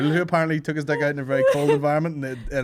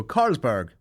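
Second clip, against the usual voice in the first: ad voice-over Carlsberg; 4 semitones lower than usual. Shown as a demonstration. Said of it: "the ad should go".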